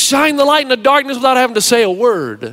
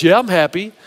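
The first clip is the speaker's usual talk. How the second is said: mock monotone, pitched down; 5 semitones lower than usual. Cranky Hank claims to the elder he is happy, monotone. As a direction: imitate a cheerless reply in a low monotone. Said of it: "just in a monotone voice".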